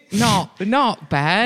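drawn-out imitation Australian; Australian accent. Host imitating his Australian audience member, slow mock Australian accent. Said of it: "who's Australian".

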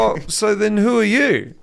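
drawn-out imitation of a baffled stranger; puzzled fan. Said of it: "he's like".

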